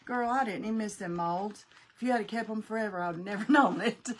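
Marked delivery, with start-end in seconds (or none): 2.0-4.1 amused, breaking into a laugh at the end; quick tease that tips into laughter. Real, not acted. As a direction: let a laugh bubble up as you finish. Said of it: "I'm laughing because your glue gun".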